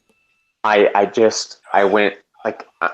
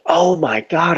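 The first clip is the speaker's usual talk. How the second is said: amazed; 7 semitones higher than usual. Retold or imitated. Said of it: "and I'm like".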